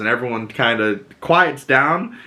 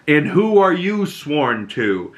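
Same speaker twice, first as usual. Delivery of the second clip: raised, slower voice, imitating a loud challenge; 5 semitones higher, slower than usual. Queen challenging the man with sworn troops, mock loud challenge. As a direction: retell it as a pointed, slow demand. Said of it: "says loudly".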